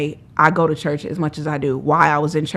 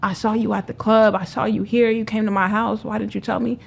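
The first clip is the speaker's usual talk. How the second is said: mock yelling; 5 semitones higher than usual. Friends calling her about her homelessness, mock yelling. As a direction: imitate friends yelling in reproach, pitched up. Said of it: "yelling at me".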